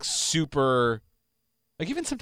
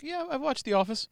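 cheery fake yes; 13 semitones higher, 4 dB quieter than usual. Mock claim of knowing show.

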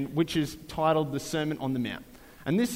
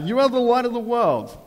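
preacher voicing Jesus to his followers, raised and proclaiming; 3 semitones higher than usual. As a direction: declare it like a teacher on a hill. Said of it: "He's like".

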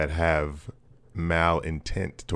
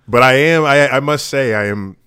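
frustrated rant; 6 semitones higher, 11 dB louder than usual. Real, not acted. Ranting about country's problems.

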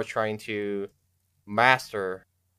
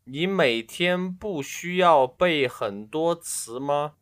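put-on voice; 6 semitones higher, slower than usual. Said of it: "I'll do it with my real voice".

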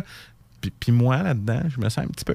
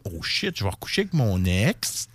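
muttered aside; 7 semitones lower, 6 dB quieter than usual. Retold or imitated. Ex realizes, inner thought voiced.

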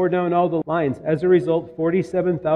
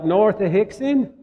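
slow, higher-pitched fake Southern accent; put-on Southern accent; 5 semitones higher than usual. Yankee student answering a local in a put-on Southern accent. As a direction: answer in a badly faked Southern drawl. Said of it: "that was a terrible accent".

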